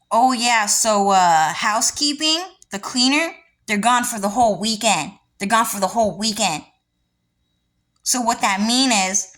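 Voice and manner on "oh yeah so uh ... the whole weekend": a hint of dismissive staff, louder; lightly voiced casual brush-off; mock staff excuse. Staff explaining the cleaners are gone, lightly mocked. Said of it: "they would say things like".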